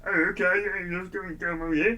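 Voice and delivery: lightly put-on British accent, easygoing; a hint of British accent agreeing to a photo. Singer agreeing to a fan photo, a loose British accent. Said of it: "you know, they're British".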